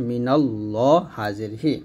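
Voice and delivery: মিনাল ল with a thick, full ল; heavy lam. Shown as a demonstration. Teacher shows the student how to read it, heavy ল. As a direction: say ল heavy and rounded, not লা. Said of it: "ল বলতে হবে মোটা করে".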